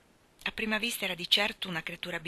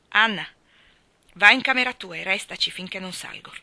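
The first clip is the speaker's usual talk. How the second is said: much louder, commanding; stern order; 9 dB louder than usual. Acted. Marilla loudly orders Anna to her room. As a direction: send her to her room sharply. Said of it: "ordinò Marilla".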